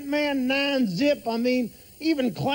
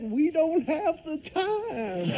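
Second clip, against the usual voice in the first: slow drawn-out delivery; slower than usual. Acted. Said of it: "like I said".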